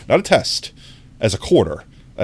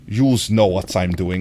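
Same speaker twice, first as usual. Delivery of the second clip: put-on slow, lower English with a Russian accent; 4 semitones lower than usual. Streamer showing why Russian sounds alluring, slow Russian accent. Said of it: "the English-speaking Russian accent".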